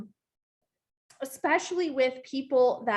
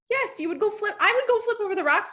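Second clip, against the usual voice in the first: emphatic pep; 9 semitones higher than usual. Real, not acted. Rousing the audience to persist.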